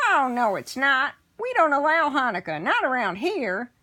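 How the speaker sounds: high, loud little goblin voice; a bossy goblin, high and loud; tiny goblin. Acted. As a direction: pipsqueak goblin snapping. Goblin voice in read story.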